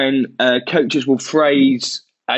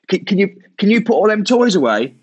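put-on talking to a kid; 5 semitones higher than usual. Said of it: "like a kid playing a game with a kid".

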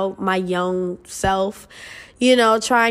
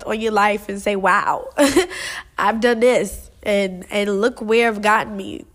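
emotional, near tears. Real, not acted. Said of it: "so I get emotional quick".

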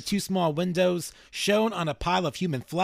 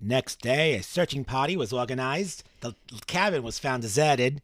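reading in a Boston accent; 2 semitones lower than usual. Shown as a demonstration. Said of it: "I don't know why I'm from Boston".

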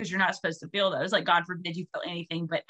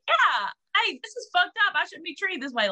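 indignant outburst; 10 semitones higher than usual. Retold or imitated. A woman objecting to unfair treatment, high and indignant. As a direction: squeal it out like you've finally had enough. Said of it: "it's like".

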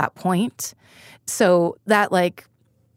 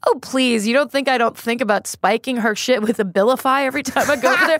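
higher retold scoff, rising toward the end; mock dismissive; 4 semitones higher than usual. Sister topping her dark confession, dismissive imitation.

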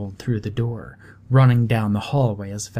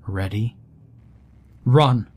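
sharp call to run, louder; urgent shout; 4 dB louder than usual. Acted. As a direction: yell it to flee. Boy urges escape from ghost.

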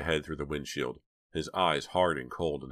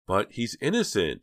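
higher, louder protest; crying out; 5 semitones higher, 5 dB louder than usual. A narrator's reading. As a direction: cry out in his defence. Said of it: "Jade cried".

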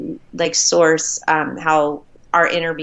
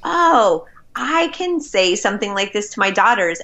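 excited realization; 4 semitones higher than usual. Retold or imitated. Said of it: "And I thought".

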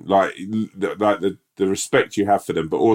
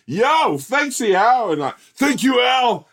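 much higher, hammed-up thanks; mock grateful soldiers; 5 dB louder, slower than usual. Soldiers thanking their rescuer, high mock gratitude. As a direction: gush thanks in a squeaky voice. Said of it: "we'd be like".

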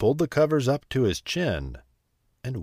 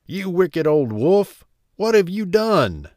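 loud, high accusing shout; woodcutter's raised-voice scolding; indignant cry; 8 semitones higher, 7 dB louder than usual. A narrator's reading. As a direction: cry out at the villain, outraged. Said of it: "cried the woodcutter".

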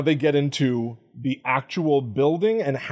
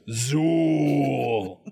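terror dog scream. Retold or imitated.

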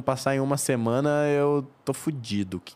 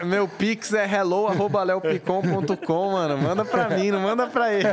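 rindo; 8 semitones higher than usual. Real, not acted. Pedindo Pix de brincadeira, rindo.

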